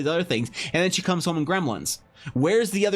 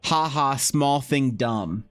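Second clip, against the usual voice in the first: a hint of a goofy gnome fan, slowed and dopey; mock the player who wants a dumb gnome, lightly. Streamer mocking gnome players to chat, lightly goofy mock voice. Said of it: "Of like".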